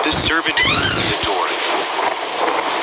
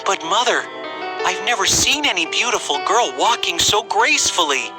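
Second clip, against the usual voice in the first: put-on higher-pitched son defending a girl; pleading prince; 6 semitones higher than usual. Prince defends the girl to his mother, pleading.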